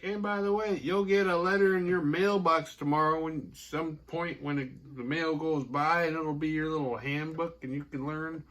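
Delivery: chirpy, high-pitched retelling; stoked. Retold or imitated. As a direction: play a pleased witch passing on news. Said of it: "But she's stoked. She's like".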